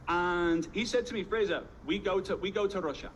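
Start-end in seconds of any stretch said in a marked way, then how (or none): 1.2-3.1 lightly faked Russian accent; understated mock-Russian accent; bad Russian accent. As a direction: make the invitation in clumsy Russian-accented English. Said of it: "this is my very bad Russian accent".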